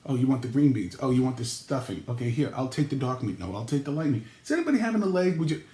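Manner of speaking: hurried, eager server at the table; passing dishes nonstop, a bit frazzled; frantic dinner host. Retold or imitated. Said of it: "This is you".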